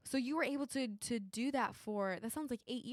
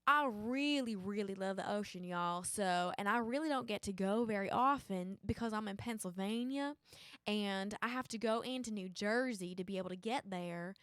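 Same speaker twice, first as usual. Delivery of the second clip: put-on Southern accent. Game player telling a beach trip story on request, Southern accent. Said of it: "Southern accent".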